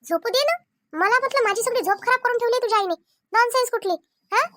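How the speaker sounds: peeved, slightly high-pitched grumble; irritated complaint. Acted. Wife grumbles about mother-in-law, irritated complaint. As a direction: complain like someone robbed of sleep. Wife angry at being woken.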